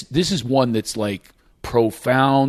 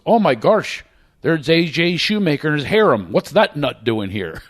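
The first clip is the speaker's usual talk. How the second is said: mock astonishment in a Shamokin accent, higher at first; 4 semitones higher than usual. Tour guide spotting a man and his harem, imitated Shamokin accent. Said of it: "with that Shamokin Cole accent".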